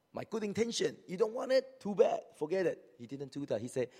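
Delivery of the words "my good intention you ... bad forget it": much higher, louder indignant retort; offended outburst. Retold or imitated. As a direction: snap back, deeply offended. Voicing an offended quitter.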